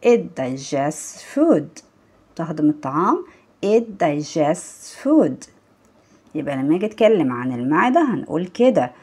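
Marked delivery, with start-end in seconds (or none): 0.1-1.8 "digests" with the t nearly swallowed before the s; hidden t in digests. Shown as a demonstration. Teacher modelling a sentence for learners, t hidden in "digests". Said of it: "هنحاول نخبي التي شوية". 3.6-5.5 "digests" said slowly, t tucked into the final s; hidden t in digests. Shown as a demonstration. Teacher repeating the sentence for learners, t hidden in "digests". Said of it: "هنحاول نخبي التي شوية".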